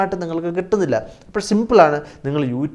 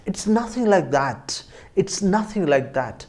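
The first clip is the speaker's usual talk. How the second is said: slow model sentence; 4 semitones higher, much slower than usual. Shown as a demonstration. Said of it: "അത് അങ്ങനെയൊന്നും അല്ല".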